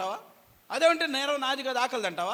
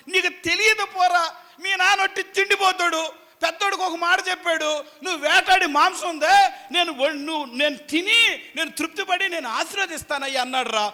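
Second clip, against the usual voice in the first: loud, higher conspiratorial mother; scheming mother; 7 semitones higher, 8 dB louder than usual. Acted. Rebekah tells Jacob what she overheard from the father. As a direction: tell it like a mother sharing a secret plan.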